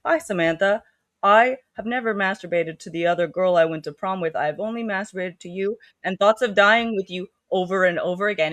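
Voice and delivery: lightly voiced robot, evenly measured words; mildly stilted robot delivery; robotic. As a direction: recite it a bit like a robot. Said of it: "he is talking like a robot".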